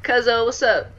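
high, loud, upbeat shoutout; hyped streamer greeting. Real, not acted. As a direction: greet viewers with energy.

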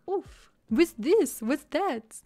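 high, loud, drawn-out mock curiosity; acted distracted excitement. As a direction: play up being dazzled by everything. Acts out her distracted browsing.

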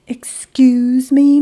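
hushed whisper. A narrator's reading. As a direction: lean in and whisper. Quietly approaching Monkey.

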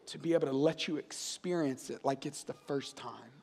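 hushed earnest preaching. Real, not acted. Hushed, earnest appeal to God's Spirit.

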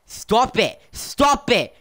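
sharp high yell to break up a fight; shouted stop. Real, not acted. Yelling at fighting teammates.

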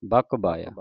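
ਬਕ ਬਾਇਆ joined, k of ਬਕ still heard; ਬਕ ਬਾਇਆ together, k not swallowed; sounded k, unforced. Shown as a demonstration. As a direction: say ਬਕ ਬਾਇਆ loosely with audible k. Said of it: "ਕੱਕੇ ਦੀ ਆਵਾਜ਼ ਉਚਾਰਨ ਹੋਵੇ".

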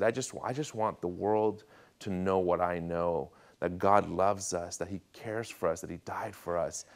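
slow, soft, sincere declaration; earnest longing. Retold or imitated. Young convert telling pastor his wish, earnest. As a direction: say it slowly, softening toward the end.

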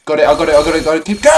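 hyped self-talk, punchy; psyching myself up. Real, not acted. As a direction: pump yourself up before the jump. Pumping himself up mid-level.

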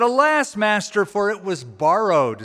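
high cry of despair on Alas, then pleading; mock despair. Prophet pleading with Elisha over the borrowed axe, despairing. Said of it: "he cried out and said".

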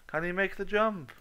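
rising to a high, loud announcer call; gameshow hype. Acted. Gamer hyping his own jump like a host.

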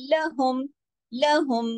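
लहुम with thin, unrounded l and h; light letters. Shown as a demonstration. Teacher models thin letters, लहुम recited lightly. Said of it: "बारीक तरीके से पढ़े जाएंगे".

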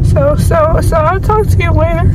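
high, teary, can't stop crying; weepy and groggy after surgery. Real, not acted. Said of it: "You always cry after anesthesia".

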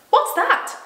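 put-on high, loud startled child's cry; startled little girl in a story; alarmed cry. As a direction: blurt it out in sudden alarm. Frightened Lucy acted in story.

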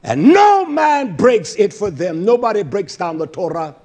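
forceful start easing into insistent teaching; driving sermon rhythm; emphatic preaching. Real, not acted. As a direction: preach it firmly after the peak. Preaching, easing after the peak.

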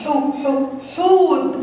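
حو said twice separately, then حوت in full; first syllable isolated. Shown as a demonstration. Teacher showing which word starts with the letter, syllable isolated. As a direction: sound out حو، حو and land on حوت. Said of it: "الكلمة يا كي جي اللي بتبدأ بحاء ضمة".

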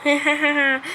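scream laugh. Real, not acted. Ölürken çığlık ve gülme.

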